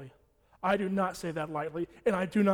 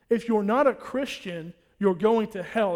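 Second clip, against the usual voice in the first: louder emphatic warning; 2 semitones higher, 6 dB louder than usual. Real, not acted. Preacher warning the church, louder and driving. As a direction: repeat it louder, driving it home.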